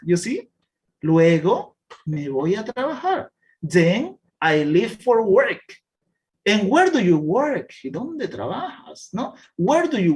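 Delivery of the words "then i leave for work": slow, clear reading of a class text; slow reading aloud. Shown as a demonstration. Teacher reading a text slowly to the class. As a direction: read each word slowly for learners.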